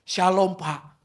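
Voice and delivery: lightly acted, sing-out greeting; imitated choir-like chorus. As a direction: greet like women suddenly chiming in together. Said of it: "langsung kayak paduan suara".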